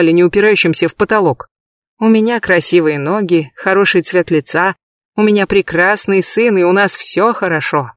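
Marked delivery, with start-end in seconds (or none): none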